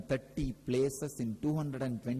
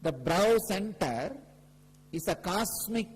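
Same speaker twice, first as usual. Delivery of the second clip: emphatic preaching; 5 semitones higher than usual. Real, not acted. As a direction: stretch each key phrase and declare it to the whole gathering. Repeats the key teaching.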